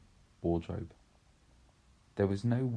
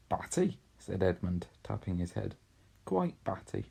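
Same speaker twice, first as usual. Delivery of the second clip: lightly mocking. Edmund teasing his sister, mildly mocking. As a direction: tease her as a lightly voiced boy.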